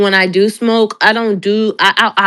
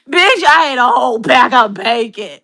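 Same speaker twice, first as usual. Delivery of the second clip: emphatic repeat; 3 semitones higher, 4 dB louder than usual. Real, not acted. Repeats bacon confession emphatically.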